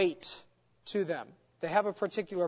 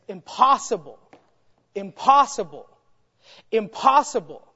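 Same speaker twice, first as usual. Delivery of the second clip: "Impossible" repeated, each louder; emphatic repetition; 5 dB louder than usual. Retold or imitated. A teacher voicing the writer's emphatic opening to students. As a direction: hammer "impossible" three times, building. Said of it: "lifting his hands and just saying".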